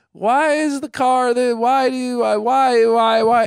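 loud, high, drawn-out whining; five-year-old nephew. Retold or imitated. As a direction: imitate a kid whining relentless questions. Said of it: "little five-year-old".

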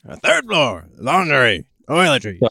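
loud, high sing-song floor calls; elevator operator. Pretend. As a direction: announce the floors like an old elevator attendant.

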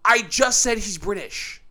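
ordinary talk, nothing marked

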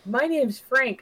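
high, loud mock Mumbai-accented introduction; playful Mumbai-accent imitation; imitated Mumbai accent. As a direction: parrot the caller in a Mumbai accent. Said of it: "speaking in a thick Mumbai accent".

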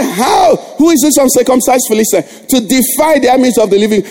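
a shouted defiant challenge; preacher voicing David's defiant shout; David's battle cry. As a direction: call him out boldly across the battlefield. David defies Goliath on the battlefront.

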